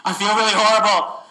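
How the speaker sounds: acted suffering between panting breaths; breathless patient. Shown as a demonstration. Patient in distress tells doctor he feels horrible, acted breathlessness. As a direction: complain through laboured breathing. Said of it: "He sounds like this".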